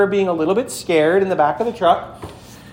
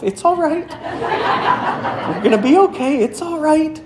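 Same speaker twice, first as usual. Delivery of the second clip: high, laughing, half-scared comfort; child whispering courage to herself in the dark; nervous self-reassurance; 10 semitones higher than usual. Retold or imitated. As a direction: talk yourself out of panic.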